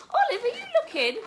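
high, quick, loud call to a pet; calling the dog. Real, not acted. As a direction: squeal it playfully at the dog.

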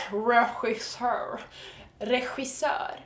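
"regissör" as re-hhi-SÖR, slowly; cat-hiss sound. Shown as a demonstration. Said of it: "same cat hissing sound".

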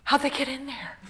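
naive, high-pitched bafflement; puzzled little kid. Retold or imitated. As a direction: wonder innocently, like a seven-year-old. Puzzled child's thought, retold.

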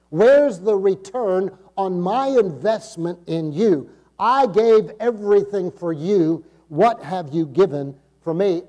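forceful, deliberate reckoning in God's voice; the Lord demanding answers. Acted. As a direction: press the questions slowly as a demanding Lord. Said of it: "he's gonna ask".

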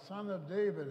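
calling out high and loud to a passerby; shouting out, pitch way up; retold yell. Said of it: "So he yells out".

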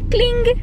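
clink noise. Pretend. Mimics a clinking sound.

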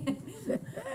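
high-pitched laugh; real amused high laughter. Real, not acted. Laughter at a board meeting.

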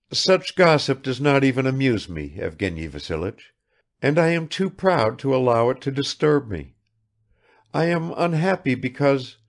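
a hint of a proud, unhappy lady; lightly voiced Madame Odintsov, proud. A narrator's reading.

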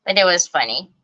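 ordinary talk, nothing marked

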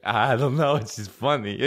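goofy caricature of a giggly friend; music buddy impression. Buddy explaining his laughing to comic, imitated goofy voice. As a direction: put on the buddy's silly voice. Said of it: "He'll be like".

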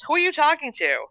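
high, called-out question; calling from inside. A narrator's reading. Someone indoors questioning Mandy, calling out. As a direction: call the question through the house. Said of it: "a voice called from inside the house".

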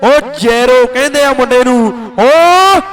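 rapid-fire kabaddi play-by-play; frantic rural sports commentary. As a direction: call the match live, hyped. (ਜੋਸ਼ੀਲੀ ਕਬੱਡੀ commentary)

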